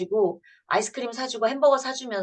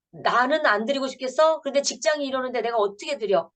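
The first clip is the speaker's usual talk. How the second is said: higher, mildly indignant retort; talking back; 4 semitones higher than usual. Retold or imitated. Grown child answering mother's scolding, mildly indignant and higher. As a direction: push back at mom with a touch of grievance. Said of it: "이렇게 대들어요".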